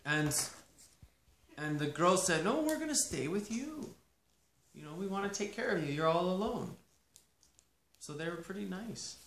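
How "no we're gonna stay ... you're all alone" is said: daughters pleading. Acted. Daughters-in-law answering Naomi.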